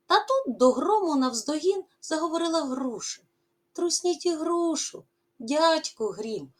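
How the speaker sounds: lively, rising and falling poem recital; expressive poem reading. Acted. Teacher reading the poem to pupils, expressive recital. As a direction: read the verse to the class with feeling.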